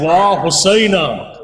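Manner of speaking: imitated wail of lament; broken-hearted lament. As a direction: draw it out as a grieving woman's cry. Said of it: "there's a broken-hearted woman saying".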